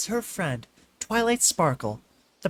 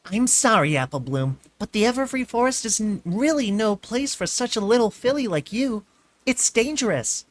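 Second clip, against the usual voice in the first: stern; 7 semitones higher, 3 dB louder than usual. A narrator's reading. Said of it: "Twilight said sternly".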